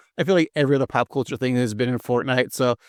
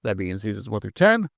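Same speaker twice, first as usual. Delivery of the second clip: newscaster voice. Acted. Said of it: "it sounds like you're trying to be, like, a newscaster".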